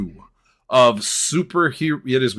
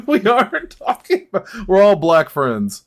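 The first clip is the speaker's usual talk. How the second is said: SNL skit quote; 6 semitones higher, 4 dB louder than usual. Retold or imitated. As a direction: play it like the SNL bit. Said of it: "that quote... from that skit".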